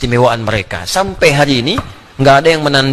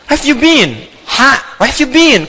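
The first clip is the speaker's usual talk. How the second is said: mock English; 7 semitones higher, slower than usual. Shown as a demonstration. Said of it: "My name is Adi".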